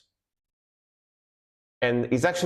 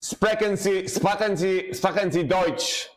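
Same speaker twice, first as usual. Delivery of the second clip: hammed-up German, pitched higher and barked; mock German gibberish, played for laughs; playfully evil fake German accent; mock evil German yap; 4 semitones higher than usual. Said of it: "yap sounds".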